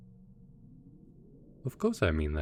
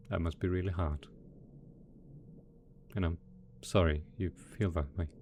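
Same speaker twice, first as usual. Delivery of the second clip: lower, gentle condolence; sympathetic; 3 semitones lower, 6 dB quieter than usual. Acted. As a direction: console them softly and sincerely. Consoles lonely assistant.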